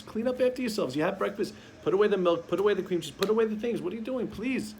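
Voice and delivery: put-on pleading at the kids to tidy up; exasperated parent. Shown as a demonstration. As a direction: parent scolding the kids about breakfast mess. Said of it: "You tell the kids".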